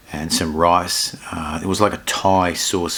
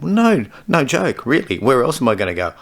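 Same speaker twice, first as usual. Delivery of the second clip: high-pitched mock protest; 7 semitones higher than usual. Real, not acted. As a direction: pitch it way up and stretch it out. Mock insisting about quarantine.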